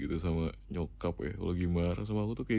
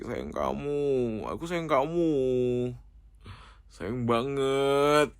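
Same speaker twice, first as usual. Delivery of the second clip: drawn-out, slightly raised, lovey-dovey cooing; cooing affection; 4 semitones higher, 3 dB louder, much slower than usual. Acted. Boyfriend coaxing his shy girlfriend with love, drawn-out cooing. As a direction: stretch it out, sweet-talking a sweetheart.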